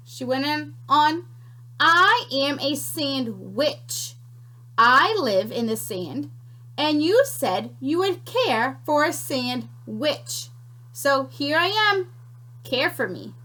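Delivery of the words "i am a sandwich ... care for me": sly creature. Acted. Creature reveals herself.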